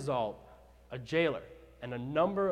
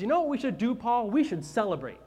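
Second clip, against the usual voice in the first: eager Silas; 7 semitones higher, 5 dB louder than usual. Acted. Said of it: "And says".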